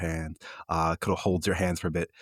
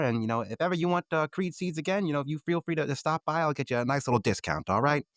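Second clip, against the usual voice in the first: put-on old shopkeeper voice; 6 semitones higher than usual. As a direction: play Mister Creed as a friendly old seed seller. GM voices Creed again.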